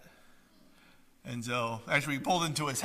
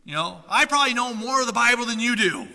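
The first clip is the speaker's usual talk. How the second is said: retold challenge, a little higher; imitating a passenger's mild aggression; mildly aggressive; 4 semitones higher, 4 dB louder than usual. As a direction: lightly mimic a pushy know-it-all. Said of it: "gets pretty aggressive with me".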